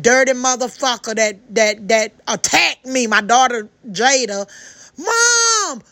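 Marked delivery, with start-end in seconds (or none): 5.0-5.8 imitating a high, sudden cry of Mom; a sharp, much higher call to get her mother's attention; screaming. Daughter in the car calling out to her mother, high retold scream. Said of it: "She was screaming in the car".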